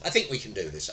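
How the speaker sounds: ordinary talk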